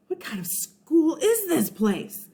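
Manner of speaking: high frightened question; worried, rising with alarm; panicked kid voice. Acted. Eugene panics in story.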